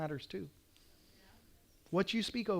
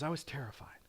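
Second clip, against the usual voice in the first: whispered, softer admission; confession; 3 semitones lower, 10 dB quieter than usual. Retold or imitated. Colonel admitting fear to a friend, whisper. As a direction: breathe the words out in a whisper. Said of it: "He goes".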